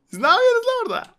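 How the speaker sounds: shrieking comic outburst; angry yell. Real, not acted. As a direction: bellow at them from afar. Yelling at game characters.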